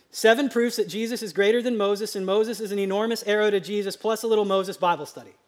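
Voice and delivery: fast, run-on read for comic effect; rapid-fire title reading. Shown as a demonstration. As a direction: reel off a long title quickly. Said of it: "gonna read it really fast".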